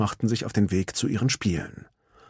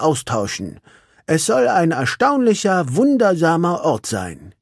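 high, friendly little critter voice; friendly hedgehog; 8 semitones higher, 4 dB louder than usual. Acted. Hedgehog explains the internet to everyone, friendly. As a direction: explain it with wonder.

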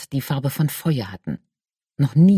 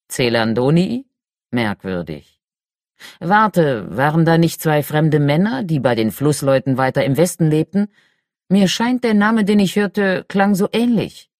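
fire giant voice; 2 semitones higher than usual. Acted. Talut the red-bearded giant speaks.

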